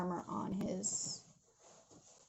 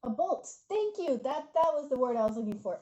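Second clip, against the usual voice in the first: higher-pitched burst, settling as it goes; delighted recognition; 3 semitones higher, 4 dB louder than usual. Real, not acted. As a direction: seize on the word you were looking for. Relieved someone supplied the forgotten word.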